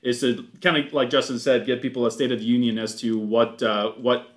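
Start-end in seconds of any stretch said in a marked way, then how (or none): none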